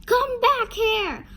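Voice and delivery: loud, high, drawn-out yell. A narrator's reading. Farmer chases after the witch, yelling. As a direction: yell after someone running off. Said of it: "he yelled".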